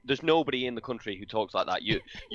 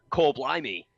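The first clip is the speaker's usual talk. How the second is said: mock Cockney English accent. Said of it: "nobody is saying things like".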